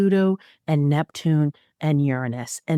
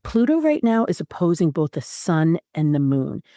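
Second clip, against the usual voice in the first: normal talking voice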